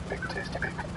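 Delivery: hushed mock Norwegian catchphrase; under-the-breath Norwegian impression; Norwegian accent. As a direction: say it softly in a fake Norwegian accent. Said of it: "in a Norwegian accent".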